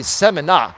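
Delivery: seminar said semi-NAH, no final R; imitated mispronunciation. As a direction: drop the R, ending seminar on AH. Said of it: "it sounds like he's saying seminar".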